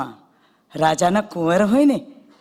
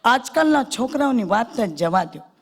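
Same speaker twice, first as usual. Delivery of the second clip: neighbour replies; 4 semitones higher than usual. Retold or imitated. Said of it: "પાડોશીએ તરત કે".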